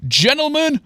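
slow, grand swooping announcement; ridiculously proud. A narrator's reading. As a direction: present it like a proud showman. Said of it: "with a ridiculous amount of pride".

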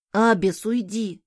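lightly voiced cross little boy; mildly angry child. A narrator's reading. Son shooing the cat from sleeping mother, mildly angry. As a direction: shoo the cat with a touch of crossness. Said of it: "сердитый голос сына".

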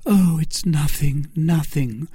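high, mildly exclaiming Milady voice; Milady crying out. Acted. Milady dismissing her bruises to Felton, high-pitched. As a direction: brush it off in a high voice. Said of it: "cried Milady".

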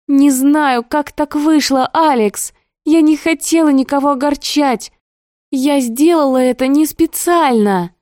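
high, strained apologetic plea; desperate pleading. Acted. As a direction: beg the brother to understand. Sister pleading with angry brother.

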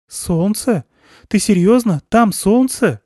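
high, loud disbelieving questions; can't believe the sun is out; astonished. Acted. Daughter to father, astonished.

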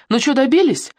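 high, pointed taunt; a sharp needling taunt; expressive jab. A narrator's reading. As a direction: throw the reproach with emphasis. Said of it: "выразительно сказала Ксюха".

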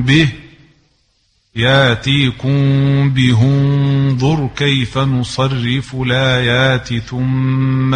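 slow, chanted Quran recitation; chanted tajweed reading of the verse. Acted. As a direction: intone the verse slowly, held notes.

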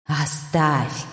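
soft eerie plea from above; hushed ghostly demand; spirit voice. A narrator's reading. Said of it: "послышалось сверху". (тихий потусторонний голос сверху)

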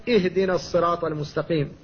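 اهدنا started with a light, unemphatic hamza; light initial hamza. Shown as a demonstration. Teacher shows how to begin the verse: light hamza on "اهدنا". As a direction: keep the hamza of "اهدنا" thin. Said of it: "فقلت".

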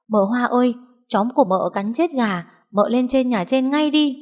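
high-pitched urgent call; running and calling. A narrator's reading. Maid running to fetch her mistress, urgent high-pitched calling. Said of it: "vừa chạy vừa hét gọi".

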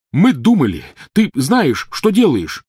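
high, loud furious yell; shouting. A narrator's reading. Ron yelling at Harry, furious shout. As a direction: hurl it at him in rage. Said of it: "крикнул Рон".

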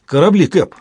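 breathless, high, loud blurt of news; urgent panting report. A narrator's reading. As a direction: gasp it out after running. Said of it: "задыхаясь, выпалил Йола".

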